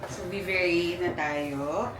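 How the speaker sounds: hushed, sneaking whisper; whispering while hiding. Real, not acted. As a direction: keep it low so nobody hears. Sneaking in for surprise birthday.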